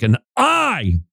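"I" lifted high and held; emphatic I. Acted. Preacher quoting Jesus' offer, "I" emphatic and high. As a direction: lean hard on "I", almost proclaiming it. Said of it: "it's almost like a shouting".

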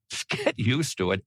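gentle grin in the voice; smiling, soft-spoken. Real, not acted. Preacher reassuring doubters with a smile. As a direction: say it softly with a smile. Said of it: "try to put a smile on my face".

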